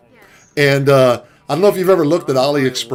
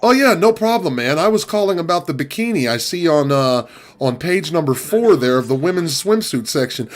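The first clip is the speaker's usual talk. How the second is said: customer caller; 2 semitones higher than usual. Retold or imitated. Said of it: "This is my impression".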